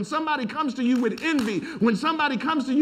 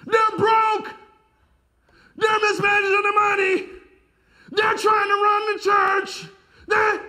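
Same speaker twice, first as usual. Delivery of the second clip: much higher, louder gossiping voice; high, loud mocking gossip; 11 semitones higher, 4 dB louder than usual. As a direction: shout it like a scandalised gossip.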